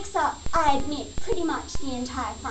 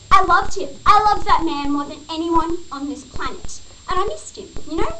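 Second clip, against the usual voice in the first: loud, emphatic confession of love; forceful, impassioned outpouring; impassioned declaration; 5 dB louder than usual. Acted. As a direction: burst out with it to the officer. Heartfelt outburst to the officer.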